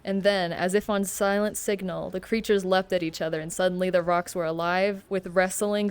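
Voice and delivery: steady read-aloud storytelling; reading a novel aloud on stream; story narration. A narrator's reading. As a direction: narrate the book evenly to chat.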